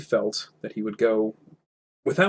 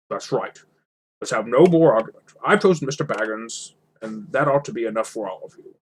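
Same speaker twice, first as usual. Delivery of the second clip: a lightly voiced stern wizard, louder at times; firm wizard; 3 dB louder than usual. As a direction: put an end to the argument with mild authority. Gandalf rebukes the dwarves.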